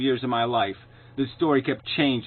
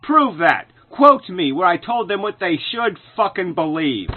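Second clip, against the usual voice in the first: angry; 4 semitones higher, 3 dB louder than usual. Real, not acted. Angry rebuttal to clip.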